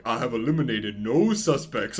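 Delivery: slow imitation southern drawl; southern accent. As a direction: quote the detective in a drawn-out southern accent. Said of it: "all the stuff where he says".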